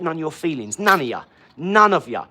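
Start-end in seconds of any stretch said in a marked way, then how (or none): 0.8-1.2 defiant loud. Real, not acted. Defiant rant at chat. 1.6-2.3 louder defiant shout. Real, not acted. Repeated louder in rant.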